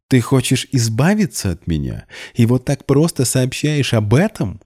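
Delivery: snarling. A narrator's reading. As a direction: spit it out in fury. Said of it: "прорычала она". (прорычала, гораздо выше)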